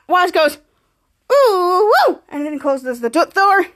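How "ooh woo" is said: high, drawn-out "ooh, woo"; acted whoop. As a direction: mimic a character's whoop. Retold character's exclamation.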